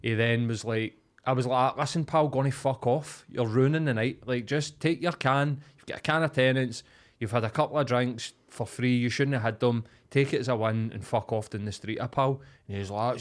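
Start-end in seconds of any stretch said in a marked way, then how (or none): 1.8-12.4 retold confrontation. Retold confrontation with drunk guest.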